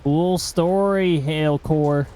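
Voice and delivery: slow, dry sarcastic drawl. Real, not acted. Dismissive remark to the storm.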